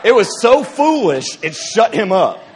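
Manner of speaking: giddy laughing exclamation; laughing disbelief. Real, not acted. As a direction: crack up at your own nerve. Laughing recounting own boldness.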